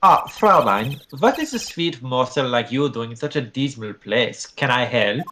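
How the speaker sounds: lightly voiced smooth flirt; a hint of a charming rock star; suave charmer.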